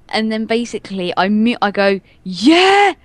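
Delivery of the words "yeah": sudden high shouted yeah; loud fake enthusiasm; mock yell. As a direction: bark it out like a hype gamer. Gamer yelling into mic as joke.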